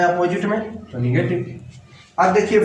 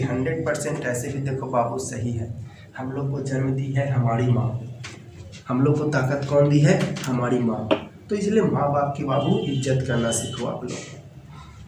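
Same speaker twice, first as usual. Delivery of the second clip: lower, softer heartfelt aside; sincere advice; 6 semitones lower, 6 dB quieter than usual. Real, not acted. Teacher urging students to honour their parents, sincere advice. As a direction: drop low and soft, counsel them earnestly.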